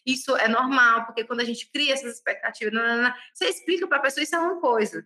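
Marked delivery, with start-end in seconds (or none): 0.1-3.1 gentle, caring. Acted. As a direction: break hard news to a client tenderly. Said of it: "de uma forma carinhosa". (com carinho, devagar e mais grave)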